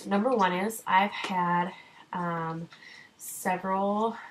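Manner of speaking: breathless, catching her breath; out of breath, talking between gasps. Real, not acted. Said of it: "trying to catch my breath".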